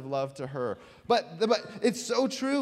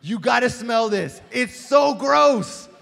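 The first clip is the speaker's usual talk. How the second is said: slow, higher, drawn-out disgust; mock gross-out dare; 6 semitones higher, 9 dB louder, slower than usual. A guy daring his friend at church in mock disgust. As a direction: stretch out how gross it is. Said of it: "We say".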